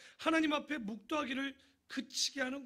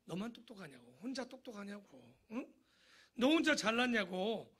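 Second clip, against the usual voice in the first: taunting. Acted. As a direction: needle him for thinking he alone is smart. Preacher voices friends taunting Job.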